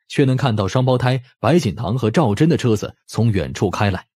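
ordinary delivery

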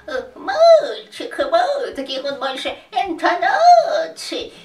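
put-on slow, laughing old man's voice; raspy old voice. Shown as a demonstration. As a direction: rasp it out like an old wizard. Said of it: "это даже не совсем хрипотца".

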